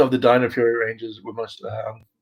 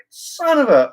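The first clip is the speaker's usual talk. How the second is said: cut-off curse; 12 semitones higher, 3 dB louder, slower than usual. Retold or imitated. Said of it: "it'd just be like".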